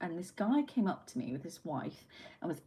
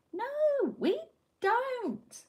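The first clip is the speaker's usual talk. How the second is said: emphatic no; much slower than usual. Real, not acted. Denying anyone wants a bad day.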